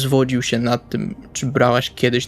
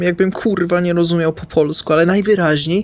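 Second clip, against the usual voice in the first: 1 irritated rant; 3 semitones higher than usual. Acted. Salvi rants about Kamil.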